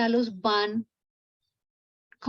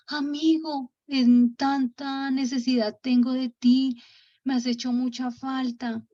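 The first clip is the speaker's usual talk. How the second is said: slow, raised voice of a moved friend, retold; heartfelt longing; 3 semitones higher, slower than usual. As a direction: act out missing an old friend, drawn out. Retold emotional reunion with friend. (añoranza emotiva, lenta y algo aguda)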